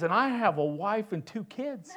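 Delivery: hint of a Frenchman's accent; French accent. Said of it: "the French accent".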